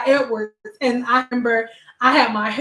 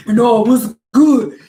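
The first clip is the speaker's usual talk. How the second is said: cheery server voice; 4 dB louder than usual. Retold or imitated. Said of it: "they all was just dying".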